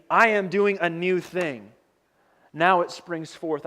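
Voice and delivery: slow, weighty verse, every word placed; unhurried solemn scripture; slow emphatic reading. Acted. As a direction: let each word land slowly.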